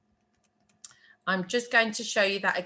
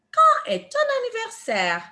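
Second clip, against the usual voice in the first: joined-up French question, higher pitched; teacher modelling the full phrase for repetition; whole phrase model; 13 semitones higher, 4 dB louder than usual. Shown as a demonstration. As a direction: run the words together as one clear question. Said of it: "How do we say that in French".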